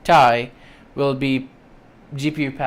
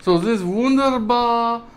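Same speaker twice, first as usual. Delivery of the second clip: higher, slow hammy German accent; 8 semitones higher, 5 dB louder, slower than usual. Shown as a demonstration. Vlogger hamming up a German accent over thermal paste. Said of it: "I can't do my German accent".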